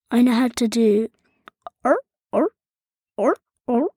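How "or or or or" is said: seal impression. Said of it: "Uh, seal".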